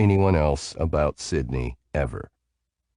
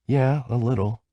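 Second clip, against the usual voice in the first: sleepy yawn; 7 semitones higher than usual. A narrator's reading. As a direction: voice breaking into a yawn. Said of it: "Her response broke with a yawn".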